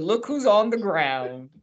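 slow, mock-knowing tease; a slow, teasing jab at the player on the ground; mocking drawl. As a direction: draw it out like an eye-roll. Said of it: "I looked at Lisa and I said".

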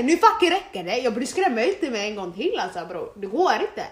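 högljutt, uppretat protesterande; säg ifrån med eftertryck, starkt och upprört; återgiven utskällning. Retold or imitated. (arg tillsägelse i återberättad form)

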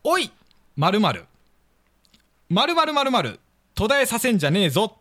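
put-on a touch of raspy old man; hoarse voice. Shown as a demonstration. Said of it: "しゃがれた声で言います". (少ししゃがれた声で)

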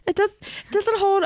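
high whiny complaint. Pretend.

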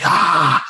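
short high mock scream; imitated crazy-person cry; amped-up yell. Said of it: "I'm the crazy person".

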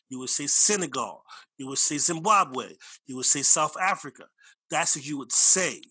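insistent. Real, not acted. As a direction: drive each name home, firm and loud. Insisting on country names.

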